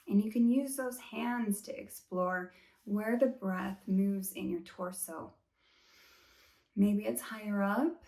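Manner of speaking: calm, unhurried meditation-guide voice; guided body scan. Shown as a demonstration. Teacher easing class through a body scan, calm guided meditation. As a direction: guide them gently, leaving long pauses between phrases.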